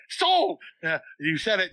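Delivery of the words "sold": high, laughing auctioneer call; auctioneer shout. Pretend. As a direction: call it like a gavel dropping. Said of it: "like an auctioneer".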